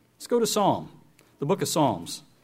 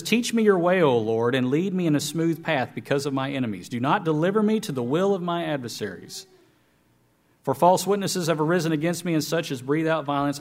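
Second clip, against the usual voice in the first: scripture reading; 2 semitones higher than usual. Acted. Reads scripture aloud.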